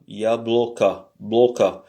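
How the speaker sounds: « yabloka » avec l'accent sur le o de « blo »; accent tonique. Shown as a demonstration. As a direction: appuie sur le o de « bloka ». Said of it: "L'accent est sur le O". (le professeur marque l'accent de « yabloka » pour les élèves)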